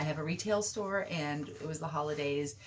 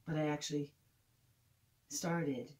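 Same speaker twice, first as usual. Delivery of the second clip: lightly voiced cheeky teenage girl; dry, gossipy teen girl telling her story; teenage girl monologue; 3 dB louder than usual. Performs Joanne monologue.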